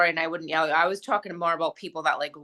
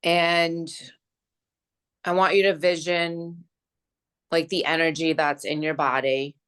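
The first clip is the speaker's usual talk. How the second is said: guided meditation. Acted. Friend guiding a closing energy visualization, calm meditation voice. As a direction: gently lead them through the visualization.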